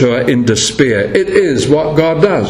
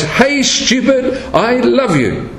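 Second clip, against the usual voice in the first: high, drawn-out mock scream, no louder; Lucy; 8 semitones higher, slower than usual. Lucy out of patience with her brother, mock scream. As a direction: imitate an exasperated scream, pitched high and slow. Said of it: "she screams out in a loud voice".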